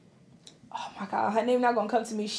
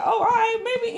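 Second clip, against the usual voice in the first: mildly impressed; 10 semitones higher than usual. Retold or imitated. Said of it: "And I was like".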